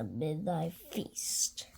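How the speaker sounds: slow, whispered hungry aside. Acted. Gruffalo's child plotting a feast in a whisper. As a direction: whisper it like a secret plan.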